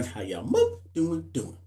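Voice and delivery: live-stream voice filter warping the voice. Real, not acted. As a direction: sounds run through an app filter. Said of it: "So I got a filter on?".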